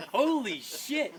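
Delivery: stretched, laughing exclamation. Real, not acted. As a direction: laugh it out high and slow. Laughing at the punchline.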